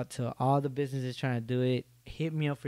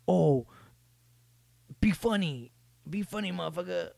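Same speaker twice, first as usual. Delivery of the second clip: mock demand; 6 semitones higher, 4 dB louder than usual. Mocking people who demand jokes.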